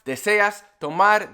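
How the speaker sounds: teaching the waiter's phrases slowly; slow example phrases. Shown as a demonstration. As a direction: model the waiter's questions slowly. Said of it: "if you hear".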